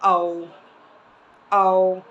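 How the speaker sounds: "O" said as a long gliding "oh". Shown as a demonstration. Teacher models the long O sound for pupils, drawn out. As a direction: stretch "O" into a full "oh". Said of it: "and long sound, which is".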